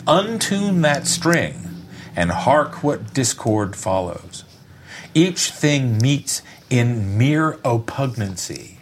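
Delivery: slow, grand Shakespeare recitation; hammy stage actor. Acted. Reads Shakespeare speech aloud.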